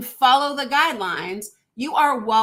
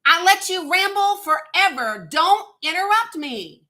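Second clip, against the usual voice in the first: loud, firm, raised voice cutting off an interruption; angry shout; 4 semitones higher, 5 dB louder than usual. Real, not acted. Host shouting down a caller who keeps interrupting, furious and loud. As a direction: stop him dead, no more interruptions.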